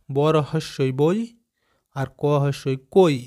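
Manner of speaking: ধীরে ধীরে বানান বলা, প্রতিটা বর্ণ আলাদা করে; শিশুদের জন্য টেনে টেনে বানান বোঝানো; slow spelling out. Shown as a demonstration. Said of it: "এখন তোমরা নিজেরা করো দেখি". (ক্লাসে ছাত্রদের বানান শেখাতে ধীরে ধীরে উচ্চারণ)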